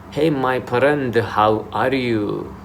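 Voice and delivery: put-on slow, drawn-out Arabic-accented greeting. Showing how Arabic people greet you in Dubai, Arabic accent. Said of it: "Arabic people will come to you and say".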